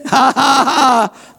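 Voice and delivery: laughing. Real, not acted. Laughing burst mid sermon.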